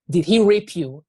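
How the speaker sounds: mother shouting the question at her daughter; retold shout. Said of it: "She just shouted".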